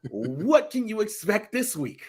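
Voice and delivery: overly happy Irish backstage interviewer; a light send-up of a sunny Irish announcer; mock cheery announcer. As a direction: play the announcer far too chipper. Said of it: "he seems too happy".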